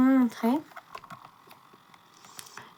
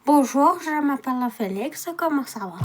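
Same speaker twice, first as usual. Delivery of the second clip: imitating Félix. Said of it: "Bonjan que j'arrive à refaire".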